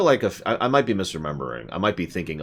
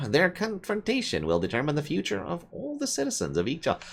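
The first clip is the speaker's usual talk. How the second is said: higher, dramatic British narrator voice; attempted British accent; 6 semitones higher than usual. Reading game lore to viewers in a bad British accent. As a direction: ham it up as a British storyteller. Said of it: "I can't do British".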